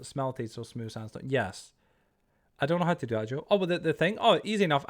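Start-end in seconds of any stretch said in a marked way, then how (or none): 0.0-1.2 slow realization. Real, not acted.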